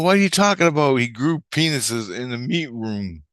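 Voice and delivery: high, loud burst easing into a repeat; incredulous. Retold or imitated. Man questions the girl's meat room claim, incredulous. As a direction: retell exasperated disbelief. Retold baffled reply to girl.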